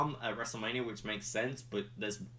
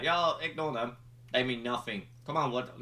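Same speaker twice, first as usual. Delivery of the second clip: higher, eager coaxing; eager reassurance; 4 semitones higher than usual. Retold or imitated. Roman coaxing Jimmy to ignore the crowd, higher and eager. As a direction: win Jimmy back, pushing. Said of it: "he's like".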